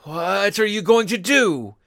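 loud, hoarse, frightened hiss; hoarse whisper. A narrator's reading. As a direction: rasp it out in alarm. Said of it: "he whispered hoarsely".

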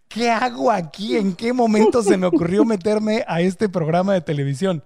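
imagined panicked doubt. Retold or imitated. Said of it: "Hubo algún momento en que dijiste".

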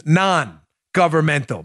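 slow, deliberate Non-governmental; spelled out slowly. Shown as a demonstration. Host explaining the term to liberals, slow and mocking. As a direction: lay out Non-governmental syllable by syllable. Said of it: "meaning not government for liberals".

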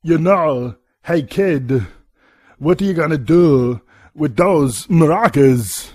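a slow, lightly voiced Walken drawl in the accent; slow the end down, a hint of Walken; Christopher Walken. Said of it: "do my Christopher Walken voice for you".

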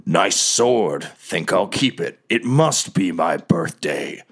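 a hint of a smug villain king; lightly voiced goblin king. King Grohl claims the sword at his feet, smug. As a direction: lightly play the king, a little low, slowing at the end. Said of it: "looks up at Lil Pim Pim and says".

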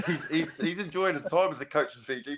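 chuckling through the words; laughing. Real, not acted. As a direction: laugh while teasing a mate. Teasing about coach on holiday.

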